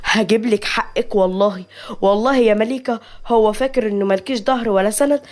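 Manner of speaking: mild, acted bitterness; hateful. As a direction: vow revenge with contained loathing. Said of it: "سيف بكره".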